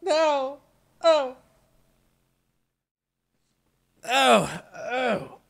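loud, high outcries; yelling. Real, not acted. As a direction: shout in real dismay. Reacting to in-game dab.

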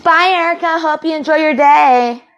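sweetly mock a cheery send-off; sarcastic goodbye. Taunting roommate Erica on the way out, sarcastic. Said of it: "that wasn't sarcasm".

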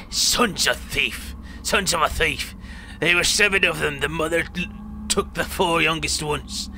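lightly voiced old man recounting hardship; acted old storyteller with a put-on accent; old man in the story. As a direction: tell the grim tale as an old villager.

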